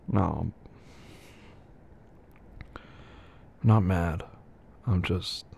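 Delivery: breaking off in a whisper. Acted. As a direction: trail off into a whisper. Softening mid-argument.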